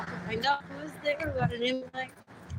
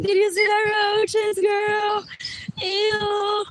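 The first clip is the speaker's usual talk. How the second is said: disgusted quote; 7 semitones higher, 4 dB louder, slower than usual. Retold or imitated. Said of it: "I'm like".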